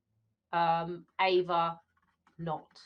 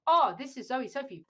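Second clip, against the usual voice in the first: self-announcing; 4 semitones higher than usual. Shown as a demonstration. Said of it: "Does anyone do that on the phone?".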